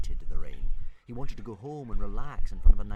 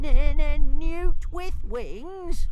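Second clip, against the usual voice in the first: high, slow stammering little dragon; stuttering dragon; much slower than usual. Acted. Toothless stammering a demand at Hiccup, high and slow.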